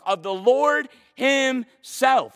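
"Lord himself" drawn out, high and emphatic. Shown as a demonstration. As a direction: stretch "Lord" and "himself" slowly with force. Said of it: "exclamation mark".

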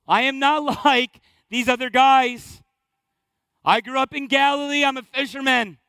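emphatic, insistent pledge, hammed up; acted-out bold promise, voice pushed up; boastful vow. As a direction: declare it with big earnest conviction. Acting Peter's boast to Jesus.

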